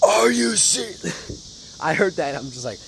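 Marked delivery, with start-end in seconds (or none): 0.0-1.8 high, very slow drawn-out disbelief; stunned disbelief. Retold or imitated. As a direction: stretch it out like you can't believe it. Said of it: "But when he just".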